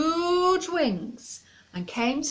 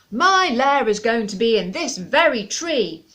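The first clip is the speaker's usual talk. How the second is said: loud angry dragon declaration; dragon roar; 8 dB louder than usual. Acted. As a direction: roar it down at the animals. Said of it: "roared the dragon".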